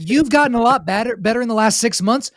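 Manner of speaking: imitating mentor. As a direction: lecture him like a calm senior teammate. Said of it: "He's like".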